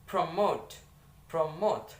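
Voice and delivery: "promote" with the stress on MOTE; teacher's model of "promote", leaning on MOTE; stress on second syllable. Shown as a demonstration. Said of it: "the syllable stress that is".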